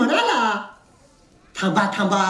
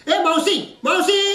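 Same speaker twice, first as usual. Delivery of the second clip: higher-pitched summons; calling out; 6 semitones higher than usual. Acted. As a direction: call for the missing maid. Calling the absent maid. (वरच्या सुरात हाक मारणे)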